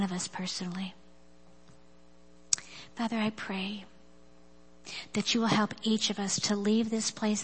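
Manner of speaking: soft, earnest prayer voice, often whispered. Acted. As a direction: pray it quietly and sincerely. Leads closing prayer.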